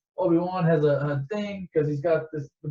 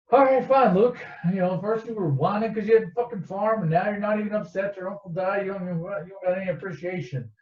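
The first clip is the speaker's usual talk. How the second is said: exasperated rant; 4 semitones higher than usual. Real, not acted. Teller ranting at Luke.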